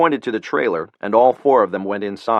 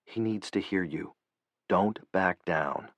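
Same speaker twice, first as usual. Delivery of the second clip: quieter voice; 2 semitones lower, 10 dB quieter than usual. A narrator's reading. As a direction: drop to a soft, private encouragement. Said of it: "In a quieter voice".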